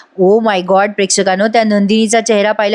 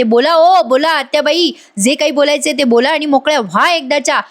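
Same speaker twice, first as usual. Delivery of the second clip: higher-pitched retold outburst, volume held back; Kavya's mild mock yell; 5 semitones higher than usual. Kavya dares her aunt to speak, mild mock yell. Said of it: "ती खूप ओरडते काव्या आणि म्हणते".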